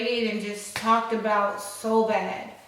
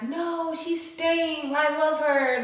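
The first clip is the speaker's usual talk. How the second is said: higher-pitched lovestruck protest; mock dramatic; 5 semitones higher, much slower than usual. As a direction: plead theatrically, as a defiant teenager in love. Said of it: "all this big dramatic bullshit".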